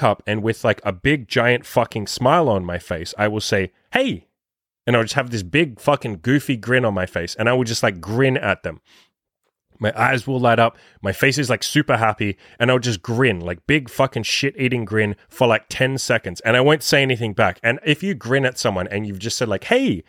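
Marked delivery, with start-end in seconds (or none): 3.9-4.3 high-pitched excited hey; really happy, peppy. Shown as a demonstration. Dating coach greeting girls with a giant grin, happy and peppy. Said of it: "in, like, a really happy, peppy, excited voice". 19.6-20.0 high, excited greeting; a peppy hey pitched way up; really happy, peppy. Shown as a demonstration. Dating coach showing how to greet girls, really happy and peppy. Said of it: "in, like, a really happy, peppy, excited voice".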